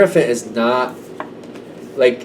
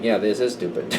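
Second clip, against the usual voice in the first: laughing agreement. Retold or imitated. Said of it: "you're immediately going".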